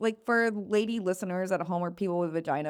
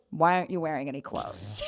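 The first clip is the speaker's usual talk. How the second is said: put-on Russian accent; 6 semitones lower, 4 dB quieter than usual. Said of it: "very severe Russian woman with a super thick accent".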